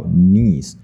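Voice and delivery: "niece" said like the city Nice, long ee; French place name. Shown as a demonstration. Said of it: "因为那个是法文".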